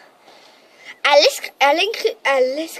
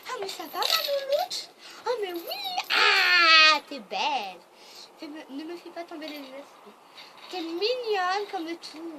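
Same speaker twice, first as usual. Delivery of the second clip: talking to a dog; 4 dB quieter than usual. Real, not acted. Cooing at the family dog.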